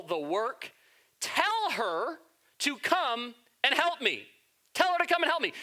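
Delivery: a mildly hammed-up complaining sister; Martha's complaint.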